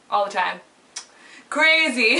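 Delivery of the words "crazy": hippie musing. Real, not acted. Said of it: "I sound like a fucking hippie".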